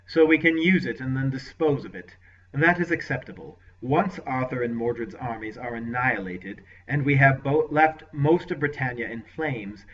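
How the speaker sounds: a hint of a cold commanding lord; lightly voiced ruthless lord; lord's voice. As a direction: lord questioning his sorcerer, lightly voiced. Lord plots to be king.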